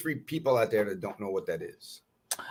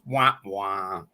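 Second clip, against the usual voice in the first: sad trombone wah wah. Shown as a demonstration. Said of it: "I got a musical theme. It goes".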